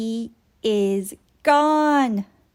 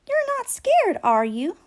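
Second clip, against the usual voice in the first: gentle; 12 semitones higher, 4 dB louder than usual. A narrator's reading. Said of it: "Lammy asks gently".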